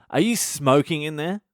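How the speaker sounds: retold attendant demanding an answer; mock interrogation through a toilet door; suspicious questioning.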